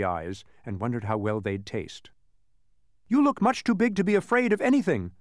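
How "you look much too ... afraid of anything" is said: put-on high, louder boy hero voice; high-pitched urgent protest; Milo quickly. A narrator's reading. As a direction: pipe up as Milo, pitched well up. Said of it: "said Milo quickly".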